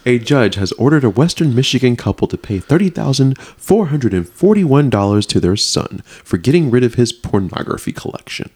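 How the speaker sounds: news story with swooping emphasis; theatrical article read-out; dramatic reading. Acted. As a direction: punch up key words like a dramatic newsreader. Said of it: "Why are you saying it like that?".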